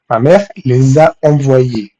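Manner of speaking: measured, deliberate French example; slow model sentence. Shown as a demonstration. Teacher modelling the corrected French sentence for students, slowly. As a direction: say it slowly for learners to follow.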